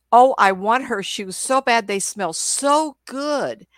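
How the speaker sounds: drawn-out, high doggy rapture; craving dog's voice. Acted. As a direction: gush with longing like a dog. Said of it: "the dog showed me".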